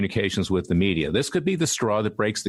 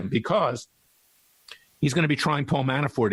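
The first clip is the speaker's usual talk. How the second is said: real throat-clearing, then a higher restart; choked up; 4 semitones higher than usual. Real, not acted. Host arguing about Mueller, getting choked up. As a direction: clear your throat and push the word out. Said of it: "I'm getting choked up again".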